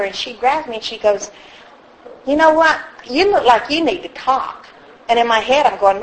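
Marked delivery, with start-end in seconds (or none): 2.3-4.7 higher, emphatic retold voice, slowing down; imitating assertive stranger. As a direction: act out a woman stepping in to take charge. Stranger confronts her after meeting.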